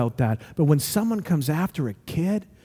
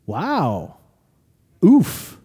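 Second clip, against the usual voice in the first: underwhelmed amazement. Acted. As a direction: sound let down and taken aback. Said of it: "Or would it be like".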